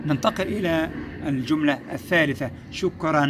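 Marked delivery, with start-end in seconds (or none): 2.7-3.3 شكرا as "shukran" with a long ringing N; tanween ending. Shown as a demonstration. Teacher reading the third sentence, tanween ending. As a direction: hold the final N of شكرا. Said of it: "شكرا منتهية بتنوين الفتح".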